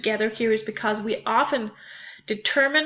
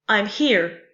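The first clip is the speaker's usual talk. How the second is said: "I'm here" with light "I'm" and falling, stressed "here". Shown as a demonstration. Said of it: "are unstressed and".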